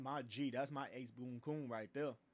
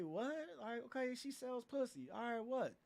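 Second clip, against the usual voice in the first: heated comeback; 5 semitones higher than usual. Retold or imitated. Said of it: "man, it's like".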